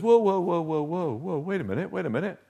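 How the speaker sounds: soft, hushed whoa, wait a minute; a quiet voice pulling you back; inner voice of self. Acted. The inner self whispering doubts to the listener, hushed. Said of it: "that voice inside, self, says".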